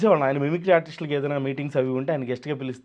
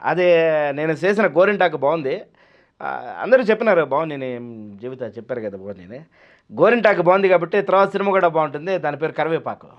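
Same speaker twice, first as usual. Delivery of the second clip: lightly voiced film hero, mostly louder; Rajasekhar; 4 dB louder than usual. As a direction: mimic the film hero giving a halting speech. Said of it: "ఏం మాట్లాడతారనేది నేను create చేశాను". (రాజశేఖర్ ప్రసంగం అనుకరణ)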